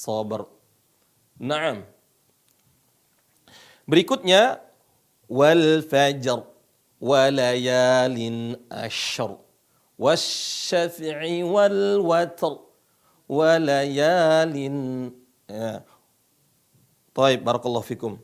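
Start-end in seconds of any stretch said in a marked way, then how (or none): 5.3-15.1 slow Quran verses ending on a heavy r; slow recitation. Shown as a demonstration. Teacher leading students through the verses, slow and clear. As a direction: chant each phrase slowly, with a pause between. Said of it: "ikutin saya".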